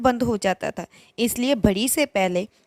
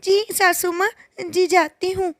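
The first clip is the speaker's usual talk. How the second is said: put-on higher, hesitant girlish voice; answering the mother-in-law meekly, a bit higher; nervous bride; 5 semitones higher than usual. (सास से सहमी, ऊँची आवाज़ में बात करती बहू)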